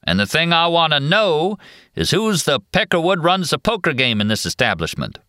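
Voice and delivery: high drawling Western cowboy voice. Acted. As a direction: swagger it like a movie cowboy. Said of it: "in his drawling cowboy actor's voice".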